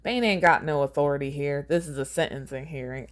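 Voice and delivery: a Southern man presiding; Southern accent. Acted. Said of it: "he sounds like a southern man".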